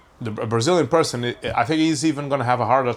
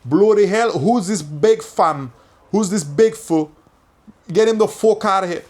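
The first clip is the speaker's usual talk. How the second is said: loud, higher-pitched mock British outburst; hammed-up British slang accent, punchy and raised; 7 semitones higher, 4 dB louder than usual. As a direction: play an outraged Brit in a put-on British accent. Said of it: "And the Brits are like".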